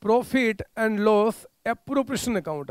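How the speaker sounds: each word drawn out slowly for notes; spelled out at dictation pace. Shown as a demonstration. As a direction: dictate it slowly so students can write. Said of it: "आपने बोला by".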